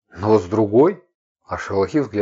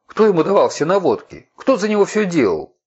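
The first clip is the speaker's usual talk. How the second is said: furious rant; 8 semitones higher than usual. Acted. Furious rant about betrayal.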